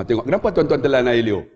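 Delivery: normal talking voice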